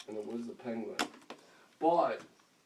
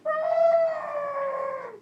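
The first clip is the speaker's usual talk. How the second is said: long, very high cry; high, loud wail; mock squeal; 7 dB louder than usual. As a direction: squeal out the reaction, drawn out. Imitated reaction to the plan.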